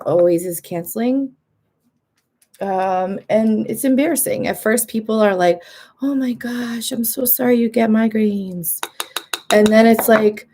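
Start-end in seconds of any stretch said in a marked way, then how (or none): 6.0-8.8 mock sympathy. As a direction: play the sorry friend, voice lifted at first. Acting out friends' first sympathy.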